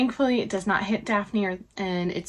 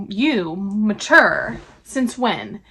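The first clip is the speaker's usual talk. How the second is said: louder, slow scoffing jab; mocking retort; 8 dB louder, much slower than usual. Eloise scoffing at Penelope, loud and slow. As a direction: drag it out with mock disbelief.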